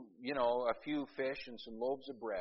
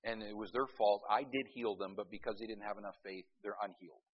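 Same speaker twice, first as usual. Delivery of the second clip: mocking faith healer; 3 semitones lower, 6 dB quieter than usual. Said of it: "what does a faith healer say".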